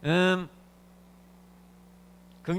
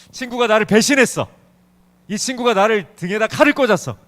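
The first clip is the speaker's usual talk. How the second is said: louder, higher mock outrage; acted betrayal; 3 semitones higher, 5 dB louder than usual. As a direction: protest a friend's betrayal, dramatized. Acts out a betrayed friend. (배신당한 듯 목소리 높인 억울한 연기)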